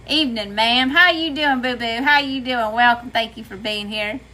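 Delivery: warmly greeting in a Southern accent; friendly Southern-accented welcome. Real, not acted. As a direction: let the Southern accent come out. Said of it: "make my southern accent come out".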